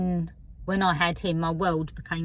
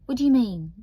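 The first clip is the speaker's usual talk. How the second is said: high, louder mock query; imitating bullies; 7 semitones higher, 6 dB louder, faster than usual. Bullies challenging the new girl's word, high loud mock query. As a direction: act out a puzzled challenge, pitched up. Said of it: "And they'd go".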